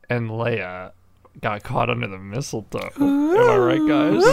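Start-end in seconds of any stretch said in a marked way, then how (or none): 3.0-4.2 high loud am I right; joking punchline. Pretend. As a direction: sell the joke loudly. Joke punchline to audience.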